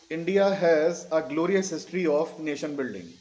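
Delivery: slow, word-by-word English dictation. Shown as a demonstration. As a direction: dictate it slowly for students copying it down. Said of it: "धीरे धीरे बोल रहा हूँ". (धीरे-धीरे, शब्द-दर-शब्द लिखवाते हुए)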